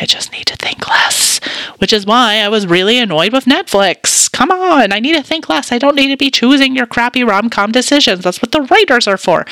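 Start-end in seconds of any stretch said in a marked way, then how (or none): 0.0-1.9 whisper. Real, not acted. Whispered aside about needing rest. 4.3-9.5 exasperated. Real, not acted. Mock rant at Netflix.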